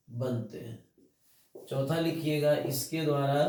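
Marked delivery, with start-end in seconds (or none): 0.1-1.6 drawn-out "बनते हैं" for note-taking; slow dictation. Shown as a demonstration. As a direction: stretch "बनते हैं" slowly while students write. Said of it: "बीज बनते हैं". ("बनते हैं" धीरे-धीरे लिखवाते हुए)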